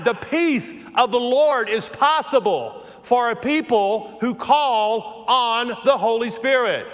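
slow, weighty restatement; emphatic repeat. Real, not acted. Pastor repeating his point to the congregation, slow and emphatic. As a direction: say it slowly, phrase by phrase, so it lands. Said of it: "Let me say it one more time".

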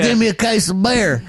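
high put-on country hick voice; redneck voice. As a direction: play a stubborn backwoods homeowner. Mocking hurricane holdouts, redneck.

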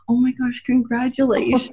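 high, gushing congratulations; gushing stranger. Retold or imitated. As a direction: gush like a delighted passer-by. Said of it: "she's like".

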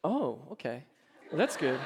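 put-on soft child agreement. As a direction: quietly accept like a small child. Daughter accepting quietly.

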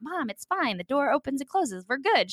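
high, soft, airy brush-off; breezy reassurance. Retold or imitated. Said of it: "But I was like".

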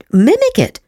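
whisper. Real, not acted. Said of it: "teaching, whispered instruction".

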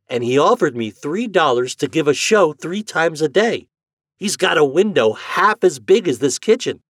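put-on lively farm boy. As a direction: tell it with gusto. Homer continues.

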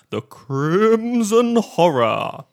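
wavering horror-host voice; wobbly voice. Pretend. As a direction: let the voice wobble spookily on the title. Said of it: "Did you like my wobbly voice?".

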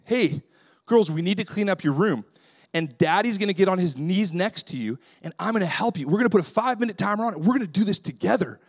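put-on dad gently offering to help the girls tidy up; gentle invitation. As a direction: coax them kindly into helping. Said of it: "if I approach it saying".

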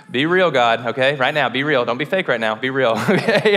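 half-joking, loud insistence; playful plea. Real, not acted. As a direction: tease God to be real. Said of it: "playful demand to God".

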